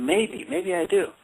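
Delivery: put-on reluctant little boy. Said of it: "I was like".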